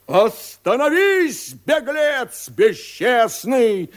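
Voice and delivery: high, loud furious shout. A narrator's reading. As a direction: yell after the fleeing rider. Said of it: "кричит Фарлав".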